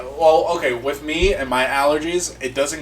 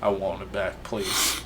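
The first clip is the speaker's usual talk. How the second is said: mock pleading; 5 semitones lower, 10 dB quieter than usual. Begging for his truck.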